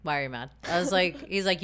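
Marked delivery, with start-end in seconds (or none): 0.0-0.5 lower-pitched man's voice; low, lightly voiced boyfriend impression; imitated boyfriend. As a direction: drop the pitch to mimic a puzzled boyfriend. Imitates boyfriend answering her pout.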